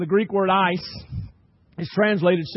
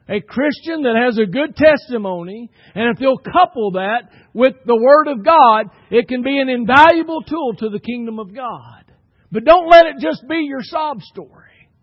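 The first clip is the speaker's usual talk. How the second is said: louder preaching with punched key words; emphatic preaching; 4 semitones higher, 9 dB louder than usual. Acted. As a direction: drive the point home to the congregation. Preacher presses the point with force.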